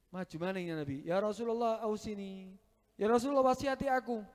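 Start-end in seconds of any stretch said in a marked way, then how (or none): 1.0-4.2 the companion asks again, louder and more urgent; pressing plea. Retold or imitated. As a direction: plead insistently, rising toward the end.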